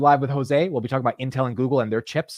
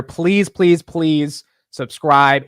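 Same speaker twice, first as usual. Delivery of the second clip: loud pleading; 4 semitones higher, 9 dB louder, much slower than usual. Real, not acted. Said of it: "pleading with viewers".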